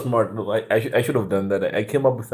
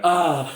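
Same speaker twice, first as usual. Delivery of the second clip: higher, louder "ah" of dismay; acted shocked cry; 7 semitones higher, 5 dB louder than usual. Reader reacting to the end of part one, mock shocked cry. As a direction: cry out as if the ending just hit you. Acts out reaction to manga ending.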